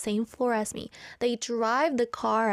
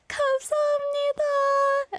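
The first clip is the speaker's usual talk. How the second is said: shouted thanks; faster than usual. Retold or imitated. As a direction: call it out while driving off.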